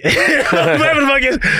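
laughing through the words; high, laughing throwaway. Real, not acted. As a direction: shrug it off with a laugh. Laughs at own maths.

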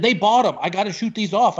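high-pitched retold pleading of a case; insistent. Tech guy to comic about pyrotechnics, high insistence.

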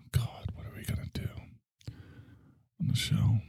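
barely audible, whispered mumble; deliberately boring. Shown as a demonstration. Host showing listeners a boring show, listless whisper. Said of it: "I'm gonna be boring right now".

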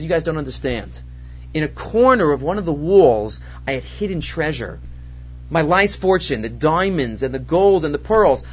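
low, subdued grief, lightly acted; a touch of private misery, low-pitched; crying homeowner. Owner tells mourners of his hidden fortune, crying. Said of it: "he's crying and crying and crying".

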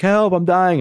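high, loud mock scream for help; retold scream. In the ER screaming at staff, high mock yell. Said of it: "I'm screaming".

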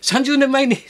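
high-pitched, overwrought mock confession; hammed-up emotional driver voice; confessing taxi driver. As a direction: imitate an awestruck driver revealing a secret.

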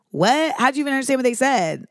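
incredulous bystanders. Pretend. Bystanders questioning the alien translator, mock incredulity. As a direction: play a baffled onlooker demanding an explanation. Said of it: "people next to me are gonna be like".

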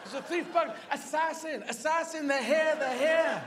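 high, barked mock alarm; talking guard dog. Dog warning owner of intruders, high urgent barking. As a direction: raise the alarm as an over-excited dog. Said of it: "It would probably be trying to say".

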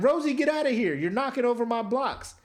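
mock little boy shouting at Rosie; high annoyed child voice; Caillou whining. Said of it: "he's just like".

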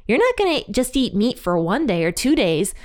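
sarcastic taunt, pitch rising through the days; God mocking the complaining people, snarky. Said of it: "God is really snarky here".

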